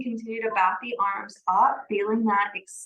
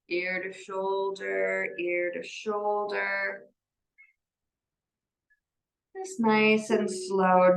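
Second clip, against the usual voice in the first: gentle yoga guidance. Real, not acted. Leads gentle yoga practice.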